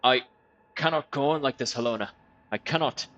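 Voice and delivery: a hint of a despairing loyal servant; lightly voiced weary servant. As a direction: servant confessing to Helena, a touch of despair. Voices game character's dialogue.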